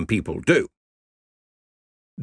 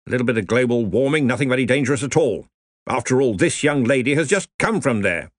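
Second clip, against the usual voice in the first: blustering colonel; 3 semitones higher than usual. Acted. Ridcully explains.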